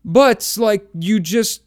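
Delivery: high, youthful naive voice; mocking young guy. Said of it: "and he's just like".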